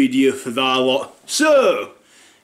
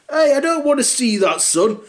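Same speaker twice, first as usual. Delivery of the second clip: much higher startled protest; alarmed dad; 10 semitones higher than usual. Retold or imitated. Dad refusing to look at son's body. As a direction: recoil at what you're shown.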